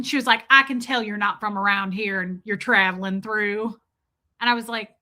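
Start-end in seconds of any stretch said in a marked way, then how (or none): 0.5-3.8 imitated Southern server's accent; Southern sass. Server sizing up an out-of-town customer, Southern sass. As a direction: do a sassy Southern waitress. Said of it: "This is that Southern sass right here".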